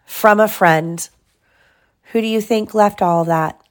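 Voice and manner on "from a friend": put-on expressive read-aloud for a child; measured bedtime-story reading; story narration. A narrator's reading. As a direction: read a storybook with lively, clear phrasing.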